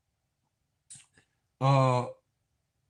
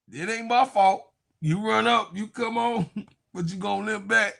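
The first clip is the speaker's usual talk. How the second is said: laughing taunt; 6 semitones higher than usual. Real, not acted. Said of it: "laughing taunt".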